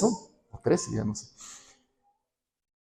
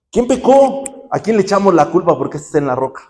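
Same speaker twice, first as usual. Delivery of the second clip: mock loud question; 4 semitones higher, 4 dB louder than usual. Disciples' question acted out.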